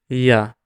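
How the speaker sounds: "ya" as Italian gli, a palatal L; Italian palatal sound. Shown as a demonstration. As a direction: press the tongue to the palate for "ya". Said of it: "there is some palatalization, like the sound".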